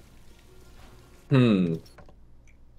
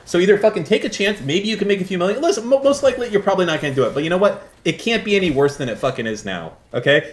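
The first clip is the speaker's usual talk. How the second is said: mock hard sell, starting high and dropping to usual pitch; edgy pitch; 4 semitones higher than usual. Streamer pushing a down-bad viewer, edgy mock pep talk. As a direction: badger the viewer, high at first, then settling. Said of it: "a little bit edgy".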